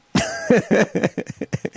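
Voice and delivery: a high, amused laugh at himself. Real, not acted. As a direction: laugh off the rant. Laughs at own rant.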